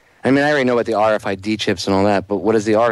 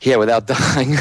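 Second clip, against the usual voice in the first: laughing; 3 semitones higher, slower than usual. Real, not acted. Laughing at own stair run.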